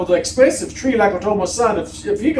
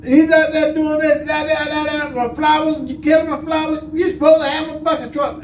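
high, pitched-up mock rant with a laugh in it; imitated angry neighbor; 8 semitones higher than usual. Teller mimics neighbor fussing over flowers, high mocking rant.

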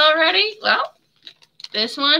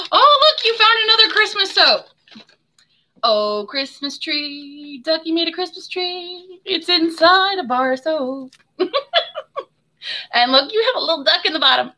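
delighted excitement; 5 semitones higher than usual. Real, not acted. Seller shows the hidden Christmas tree.

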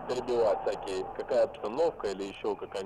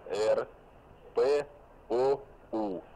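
spelling out; much slower than usual. Real, not acted. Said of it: "повторяю по буквам".

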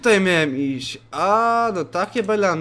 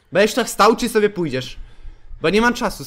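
impatient yell; 4 semitones higher, 5 dB louder than usual. Real, not acted. Yelling at a game character.

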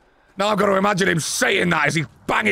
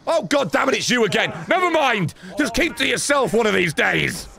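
exasperated outburst; 4 semitones higher than usual. Real, not acted. Annoyed at recurring enemy.

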